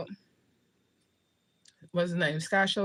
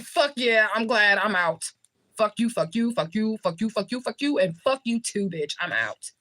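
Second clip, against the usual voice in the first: gleeful, higher-pitched retold outburst; ecstatic; 4 semitones higher than usual. Woman recalling escape from kidnapper family, ecstatic. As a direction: rattle off the kiss-off in triumph. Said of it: "I was really ecstatic inside".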